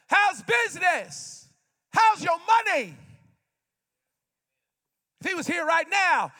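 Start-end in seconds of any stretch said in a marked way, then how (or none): 0.1-3.0 a hint of Jesus calling from shore, slow. Jesus asking the fishermen from the shore, lightly voiced. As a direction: call it across the water. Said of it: "He says to them".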